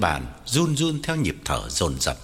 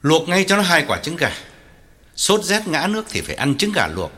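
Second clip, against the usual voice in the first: raised, gruffly commanding orders; swallowed anger; 4 semitones higher, 3 dB louder than usual. Acted. Father orders food for his sick son, swallowing anger. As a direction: give orders firmly while holding anger back. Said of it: "nuốt giận bảo".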